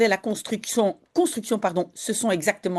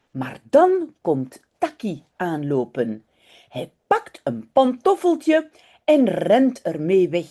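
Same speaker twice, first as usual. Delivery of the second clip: unhurried, expressive read-aloud in Dutch; children's story narration; slower than usual. A narrator's reading. Teacher reading a Dutch story to online learners, storytelling. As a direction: read it slowly and clearly for young learners.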